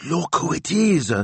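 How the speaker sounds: put-on very high, drawn-out old signora; high-pitched marvelling; excited cry. A narrator's reading. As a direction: exclaim it as an amazed discovery. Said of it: "she cried".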